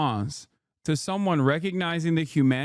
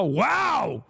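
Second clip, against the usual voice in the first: a lightly voiced smug critic; mocking critic; 2 semitones higher, slower than usual. Mocking Zionist critics, a touch smug and sneering. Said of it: "and you immediately go".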